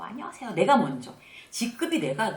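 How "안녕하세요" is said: high, soft hello with a big smile; broadly smiling greeting. Shown as a demonstration. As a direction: greet first, smiling wide. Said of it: "활짝 웃으면서". (활짝 웃으며 높고 부드럽게 인사)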